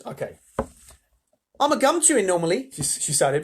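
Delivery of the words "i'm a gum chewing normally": put-on loud, high Australian girl; brash Australian accent, pitched up; Australian gum-chewer. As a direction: boast loudly in an Australian accent. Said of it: "in an Australian accent".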